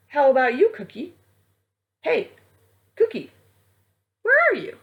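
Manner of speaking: high, loud calling for a friend. Acted. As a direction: shout out searching for Cookie. Calling out for missing Cookie.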